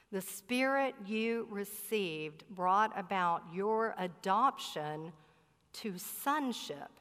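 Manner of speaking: "your adoption" drawn out, then a pause before "to sonship"; slow, emphatic repeat. Shown as a demonstration. Preacher makes sure the congregation heard that line, slow and emphatic. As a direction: spell out the verse slowly, setting "sonship" apart.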